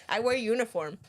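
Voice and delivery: talking through laughter; laughing. Real, not acted. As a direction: giggle between words. Teasing, laughing at own joke.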